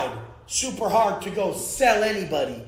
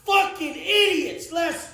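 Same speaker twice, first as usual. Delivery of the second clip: mocking shout; 9 semitones higher than usual. Real, not acted. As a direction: taunt them at full volume. Mocking broke critics.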